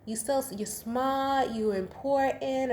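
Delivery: a light touch of a mom cheering you on; slow, lifted quote in a hint of a proud mom's voice; quoting The Help. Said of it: "the line from The Help".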